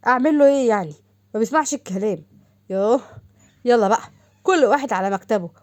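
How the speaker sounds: exasperated boss. Acted. Adham scolding Zein and Hazem for fighting, loud and fed up. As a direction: raise your voice and send them back to work. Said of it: "وقال لهم باستغراب".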